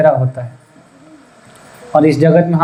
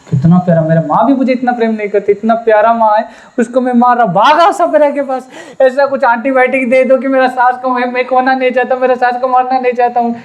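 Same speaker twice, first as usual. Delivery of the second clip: higher, fast, urgent pleading; remorseful plea; 5 semitones higher than usual. Retold or imitated. Bride begging the snake charmer to save her mother-in-law, urgent. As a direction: beg to undo the harm, rushing.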